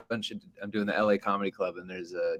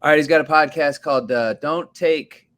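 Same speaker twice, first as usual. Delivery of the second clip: lightly voiced club host, louder and fast at the start; hammed-up emcee announcing the next comic; mock emcee intro; 4 dB louder than usual. Club host bringing the comedian up on stage, mock emcee. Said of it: "brings me up by going".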